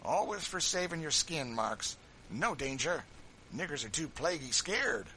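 mock the coward; loud, high contempt; sneering Tom. A narrator's reading. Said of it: "with a sneer".

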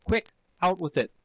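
panted demand. A narrator's reading. Husband pressing his wife to confess, panted demand. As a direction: hurry her into confessing. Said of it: "he panted".

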